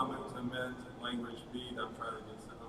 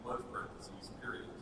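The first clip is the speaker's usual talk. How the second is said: dictating. Shown as a demonstration. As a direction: read it to the typist with punctuation. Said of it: "can we just start typing?".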